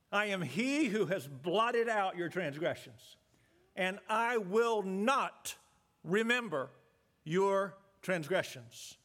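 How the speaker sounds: slow, weighty reading of God's words; deliberate, reverent quoting of scripture; solemn scripture quote. Shown as a demonstration. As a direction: give each word of the promise time. Quoting God's promise again.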